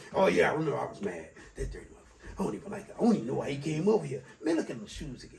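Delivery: low resentful grumble, half under the breath; grumbling grudge holder. Acted. Grudge holder to himself on seeing the person, grumbling. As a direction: grumble the grudge to yourself, trailing down.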